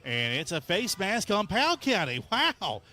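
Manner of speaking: high, loud disbelief; surprised. Real, not acted. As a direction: announce the penalty in amazed disbelief. Second penalty in a row.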